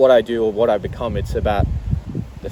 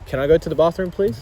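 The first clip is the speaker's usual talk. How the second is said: put-on polite kid asking; 5 semitones higher than usual. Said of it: "turned into".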